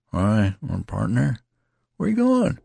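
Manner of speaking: mild unsteady dismay. A narrator's reading. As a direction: ask shakily, bewildered. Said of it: "he asked unsteadily".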